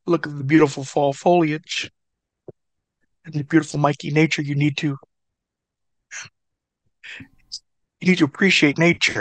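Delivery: lightly voiced preachy wrestler; a hint of Cactus lecturing. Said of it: "he wasn't really doing the Cactus voice".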